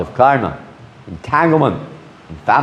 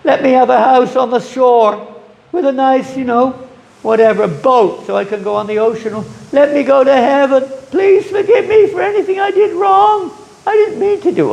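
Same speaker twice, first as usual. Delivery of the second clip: mock pleading prayer. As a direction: whine to God like a greedy child. Mocking worldly prayers at temple.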